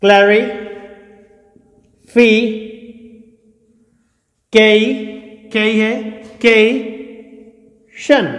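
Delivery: clarification sounded out as klæri, fi, kay, shan; isolated syllables with long pauses. Shown as a demonstration. Teacher drilling a long word, each syllable on its own. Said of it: "ए बोल रहा हूं".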